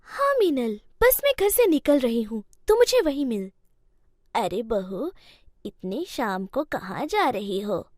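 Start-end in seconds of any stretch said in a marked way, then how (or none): 4.3-7.9 a lightly voiced elderly mother-in-law, patient; old mother-in-law. Mother-in-law asks bahu.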